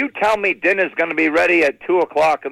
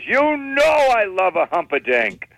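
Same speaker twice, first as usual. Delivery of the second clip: indignant aunt; 4 semitones higher, slower than usual. Acted. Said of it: "She goes".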